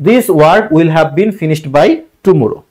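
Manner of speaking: very slow, each word set apart; slow dictation reading. Shown as a demonstration. Teacher announcing the correct passive answer, very slow and deliberate. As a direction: spell out the answer slowly for the class.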